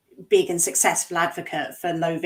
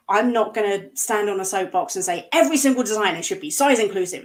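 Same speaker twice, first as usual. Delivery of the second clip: full rant mode; 3 dB louder than usual. Real, not acted. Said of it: "I'm in full rant mode".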